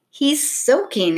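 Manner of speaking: high, drawn-out exclamation; exclaiming. A narrator's reading. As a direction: exclaim it slowly in surprise. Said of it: "exclaimed Stella".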